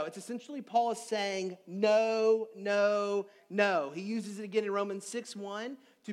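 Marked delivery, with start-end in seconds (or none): 1.7-3.9 louder, firm repeated no; strong no. Retold or imitated. Preacher voicing Paul to the congregation, strong repeated no. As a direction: stamp each no down hard. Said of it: "It's a very strong way of saying no".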